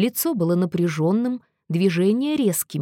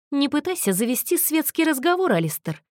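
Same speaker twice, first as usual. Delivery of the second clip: процедил; 7 semitones higher than usual. A narrator's reading. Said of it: "процедил он".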